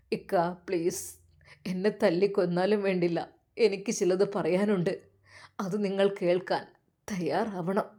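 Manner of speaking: softly insisting through tears; quiet plea. Acted. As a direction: beg him to listen, quietly. Boy begs to be heard.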